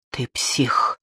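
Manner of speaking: hissed on the breath, no voice. Acted. Natasha turning on Kirsanov, voiceless hiss. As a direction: spit the words out in a hiss. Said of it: "прошипела она".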